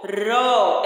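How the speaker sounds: "ró" com o O bem aberto; sílaba forte. Shown as a demonstration. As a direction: destaque "ró" como som forte e aberto. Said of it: "É o som mais forte e ele é aberto". ("ró" tônico, de vogal aberta)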